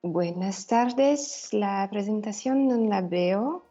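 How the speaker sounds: Spanish with a mild Italian accent. Real, not acted. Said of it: "Es una mezcla tra-, entre español e italiano". (español con acento italiano)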